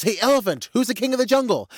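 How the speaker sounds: high-pitched challenge from a cocky lion; lion's high, punchy demand; boastful lion. Acted. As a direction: demand it like a boastful jungle king. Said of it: "The lion says".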